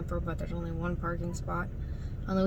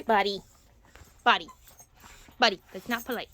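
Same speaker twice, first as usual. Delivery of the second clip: gentle scold; 5 dB louder, faster than usual. Real, not acted.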